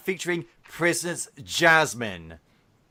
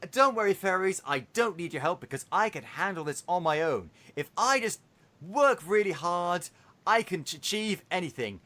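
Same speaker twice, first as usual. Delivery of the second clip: lightly mocked earnest cartoon princess; dreamy preschool princess. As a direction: hammer the message home as if imitating a toddler show heroine. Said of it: "They talk in this really dreamy".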